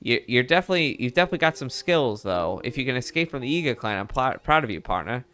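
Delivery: put-on old-timey Mid-Atlantic reporter voice; Mid-Atlantic accent. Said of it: "my, uh, Mid-Atlantic act-, accent".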